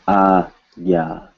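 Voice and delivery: "Agya" in two long, separated syllables; "Agya" slowly modelled, no n; Hindi pronunciation. Shown as a demonstration. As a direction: draw out "Agya" as ah, then gya. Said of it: "It's an exception".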